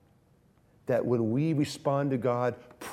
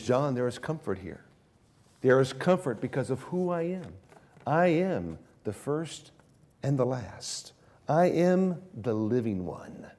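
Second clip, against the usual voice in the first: tender comfort. Retold or imitated. Jesus comforting frightened John with his name. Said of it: "touches John amidst his fears".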